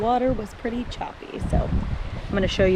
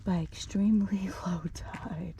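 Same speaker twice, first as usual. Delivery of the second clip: whispering; 7 dB quieter than usual. Real, not acted. Whispered with laugh.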